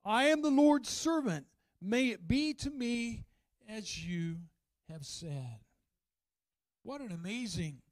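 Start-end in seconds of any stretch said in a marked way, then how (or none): 0.0-5.6 Mary's reply. Retold or imitated. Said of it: "her response was".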